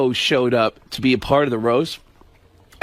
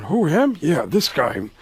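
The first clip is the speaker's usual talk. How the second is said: Pacino impression. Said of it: "Pacino's looking, going".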